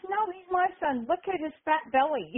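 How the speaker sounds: high-pitched mock argument; hammed-up wrestling back-talk, pitched high; arguing wrestler. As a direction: imitate a heel insisting in the ring. Acting out wrestler's in-character argument.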